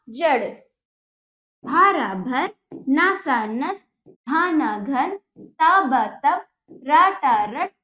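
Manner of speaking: slow, drawn-out syllables, then the joined word; sing-song sound-it-out chant for pupils; reading drill. Shown as a demonstration. (धीमे, खींचकर पढ़ाने का लहजा)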